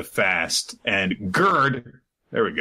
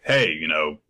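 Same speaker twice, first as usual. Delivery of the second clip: put-on low voice of old giant warriors, a bit faster at the end; lower-voiced old giant giving advice; 5 semitones lower than usual. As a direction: growl it like an elder warrior. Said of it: "they're like".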